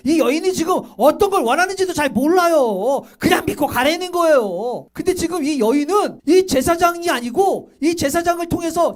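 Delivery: fervent exhortation; impassioned preaching. Real, not acted. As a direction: preach it high and insistent to the congregation. Preaches at force to congregation.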